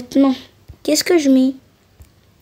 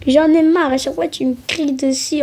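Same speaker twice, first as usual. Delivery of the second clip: fed-up outburst; 3 semitones higher than usual. Acted. Dispute fille contre mère.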